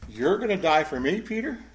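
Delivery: sceptical question, lifting on the name; mild sarcasm. Acted. Jesus querying Peter's promise to die, mildly sarcastic. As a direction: gently throw his vow back at him. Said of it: "Jesus notes the sarcasm".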